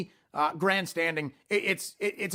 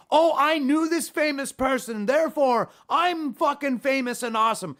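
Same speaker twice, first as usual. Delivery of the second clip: scornful imitation of a show-off; mocking boast; 6 semitones higher than usual. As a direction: puff it up like a name-dropper. Mocks a name-dropper's boasting.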